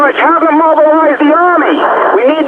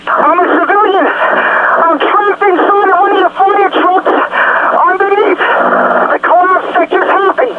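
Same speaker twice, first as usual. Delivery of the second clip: higher, slow, desperate pleading; real panic; 4 semitones higher, slower than usual. Real, not acted. Trapped civilian begs the dispatcher for rescue, panicked and pleading. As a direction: beg for rescue, struggling for air.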